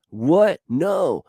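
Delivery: high, loud, startled protest; indignant refusal. Acted. Body fighting the order to be still, indignant refusal. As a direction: balk at the order, voice jumping up.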